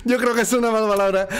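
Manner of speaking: light put-on Castilian accent; Spanish accent. Player fleeing the killer in a mild Spanish accent. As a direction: chatter like a Spanish sitcom character. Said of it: "con acento español".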